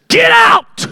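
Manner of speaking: Jesus shouting the mourners out; righteous indignation. Acted. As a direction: throw them out in fury. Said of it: "I can see the righteous indignation".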